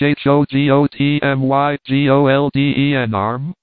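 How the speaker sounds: mournful accusing ghost wail; plaintive accusing wail. Acted. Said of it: "You must wail it out very plaintively and accusingly".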